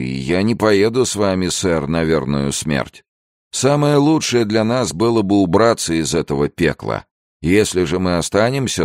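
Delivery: high-pitched, agitated sailor's protest. A narrator's reading. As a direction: plead your case, pitched well up. Sailor refuses to go to death. (взволнованный протест матроса)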